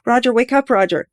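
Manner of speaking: high, loud screaming of his name; desperate scream. A narrator's reading. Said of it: "She screamed louder than she knew".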